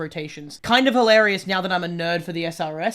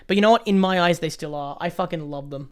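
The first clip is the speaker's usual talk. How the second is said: hyped-up YouTuber delivery. Pretend. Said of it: "I just did, like, a bit of a YouTuber voice".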